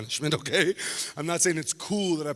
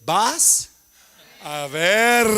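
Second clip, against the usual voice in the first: mom's threat; 10 dB louder, much slower than usual. Retold or imitated.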